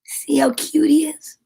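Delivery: whisper. Real, not acted. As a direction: lean in and whisper it. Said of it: "aside to child, whispered".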